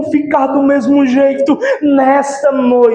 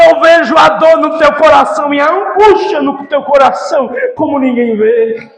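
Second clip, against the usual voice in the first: preaching at full force. Acted. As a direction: preach it over the crowd with fervour. Preaching as Jesus, loud. (pregação fervorosa e forte)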